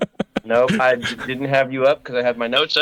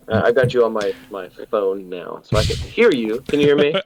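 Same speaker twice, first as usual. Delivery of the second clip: tinny phone voice; 3 semitones lower than usual. Real, not acted. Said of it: "you sound tinny as hell".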